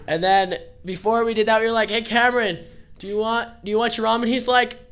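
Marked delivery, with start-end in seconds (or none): 1.9-4.3 high, louder fake-sweet question; mock innocent offer. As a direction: tease him sweetly. Teasing friend about his ramen.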